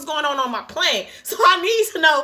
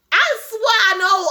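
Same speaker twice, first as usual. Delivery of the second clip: louder, slow, pitched up; worked up; 4 semitones higher, 4 dB louder, slower than usual. Real, not acted. Reader fed up with the sarcastic pilot, louder. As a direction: burst out in disbelief. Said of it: "that made me turn up".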